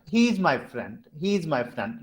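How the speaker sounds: HE IS MY FRIEND kept fairly even; matter-of-fact, level HE IS MY FRIEND. Shown as a demonstration. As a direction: say HE IS MY FRIEND with little pitch movement. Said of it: "level tone".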